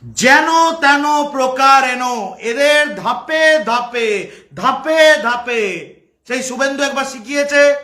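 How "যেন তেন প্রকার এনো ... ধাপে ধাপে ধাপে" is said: slow, drawn-out mock chant. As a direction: stretch each step out teasingly. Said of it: "এরম খোরাক করে কেন বলি".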